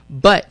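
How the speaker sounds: BUT said as if in capitals; emphatic, standalone But; stress on BUT. Real, not acted. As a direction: hit the word But firmly. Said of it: "capital B, capital U, ta-, capital T".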